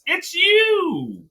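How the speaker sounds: it's you, yelled in disbelief; exasperated outburst. Real, not acted. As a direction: blurt the answer high and hard. Ranting at wrestler.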